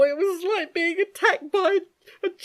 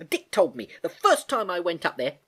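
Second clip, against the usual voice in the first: much higher and louder, furious; angry shout; 7 semitones higher, 5 dB louder than usual. Acted. Girl accusing her uncle, angry. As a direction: snap back at him. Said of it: "shouted Gedankin angrily".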